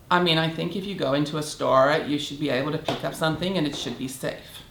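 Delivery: lazy monotone impression, words barely shaped; monotone, mumbled. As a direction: mimic her bored, mumbling monotone. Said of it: "except not with as much enunciation, very monotone".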